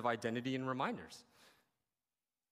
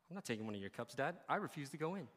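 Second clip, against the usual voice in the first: sulky refusal; 6 dB quieter, faster than usual. Retold or imitated. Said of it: "the older son refused to drink".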